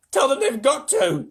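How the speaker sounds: high, loud, slow insistence; shouting back. A narrator's reading. James answering the centipede, insistent shout.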